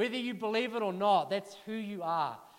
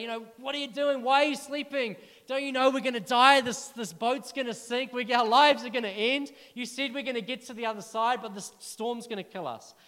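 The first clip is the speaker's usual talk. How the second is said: panicked disciples; 3 semitones higher, 6 dB louder than usual. Acted.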